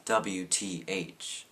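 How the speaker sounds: drawn-out scornful "W T H", each letter slow; mocking. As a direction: sneer "W T H" letter by letter. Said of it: "No one says".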